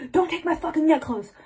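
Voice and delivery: high, indignant mock outburst; acted indignant protest. Acts out character losing her necklace.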